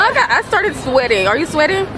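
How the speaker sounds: talking through a burning mouth; slightly strained from spicy heat; mouth burning from spicy food. Real, not acted. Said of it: "My mouth is still burning".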